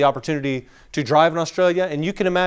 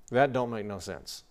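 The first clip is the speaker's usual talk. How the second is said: put-on slow, quieter West Texas redneck accent; 3 semitones lower, 7 dB quieter than usual. Quoting folks from the Panhandle, West Texas accent. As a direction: say it like a West Texas local, slowly. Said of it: "you start to hear phrases like".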